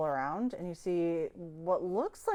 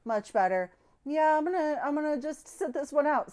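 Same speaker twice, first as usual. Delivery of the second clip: satisfied sigh; 7 semitones higher, 4 dB louder than usual. Acted. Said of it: "sighs, and goes".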